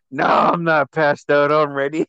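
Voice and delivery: slow, drawn-out mock denial; a hint of drunken protest; imitated drunk friend. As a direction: lightly play a woozy drinker insisting he's fine.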